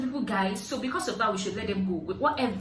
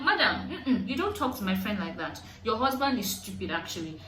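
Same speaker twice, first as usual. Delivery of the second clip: laughing retort. Retold or imitated. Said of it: "And I was like".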